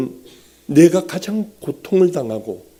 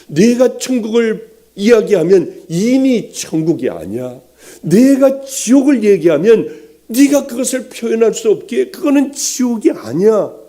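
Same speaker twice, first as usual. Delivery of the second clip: forceful preaching; 6 semitones higher, 4 dB louder than usual. Retold or imitated. Preacher voices God's reply.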